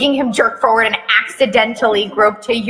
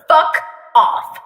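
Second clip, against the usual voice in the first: cold whispered; 6 semitones higher than usual. Acted. Taehyung's cold greeting.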